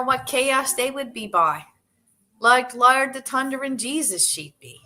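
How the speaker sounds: put-on reading in a Newfoundland accent; light Newfoundland accent. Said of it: "I'm gonna try this in a Newfie accent".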